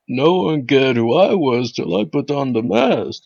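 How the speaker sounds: put-on old person anime dub voice. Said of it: "anime dub trying to talk like an old person".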